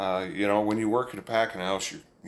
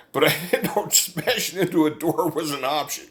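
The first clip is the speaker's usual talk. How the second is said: laughing joke; 6 semitones higher than usual. Retold or imitated. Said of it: "I said".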